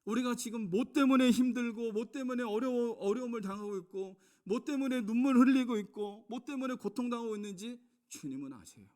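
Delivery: high, loud pleading sermon build; impassioned preaching. Acted. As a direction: press each trouble on the listeners. (호소하는 열정적 설교)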